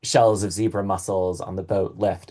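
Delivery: both "boat" and "lift" stressed side by side; strong stressed ending. Shown as a demonstration. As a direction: land firmly on "boat lift". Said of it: "you have that really strong emphasis".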